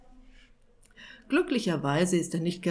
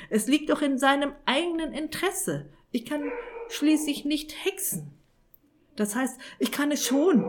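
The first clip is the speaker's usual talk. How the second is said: screaming wizard; 7 semitones higher than usual. Acted. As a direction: shriek the protest at the devil's envoy. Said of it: "schrie Irrwitzer".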